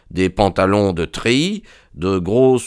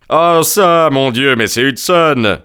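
loud, higher exclamation of astonished recognition; surprised cry; 6 semitones higher, 5 dB louder than usual. A narrator's reading. Host recognising an old shipmate, surprised cry. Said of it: "s'écria monsieur Trevor avec une intonation de surprise".

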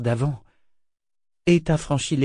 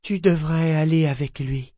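higher-pitched, tender suggestion; gentle; 5 semitones higher than usual. A narrator's reading. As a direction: urge it kindly. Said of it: "Elle ajouta doucement".

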